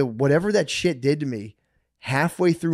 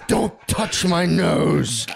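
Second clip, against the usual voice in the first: slow mock growl; 4 semitones higher, much slower than usual. Imitating nasty self, slow.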